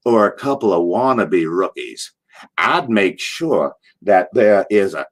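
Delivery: a hint of Dusty advising the rookies; Dusty Rhodes voice. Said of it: "Rhodes says".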